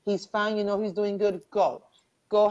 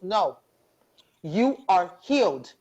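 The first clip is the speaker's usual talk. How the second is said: retold firm declaration, a bit louder; emphatic pronouncement; 4 dB louder than usual. Woman out of her trance insisting to her friend, emphatic pronouncement. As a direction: declare it with weight, word by word. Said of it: "Just like that".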